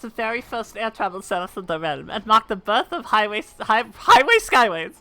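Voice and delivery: a hint of an aged gentleman narrating; lightly voiced old man. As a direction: reminisce gently like an old inventor.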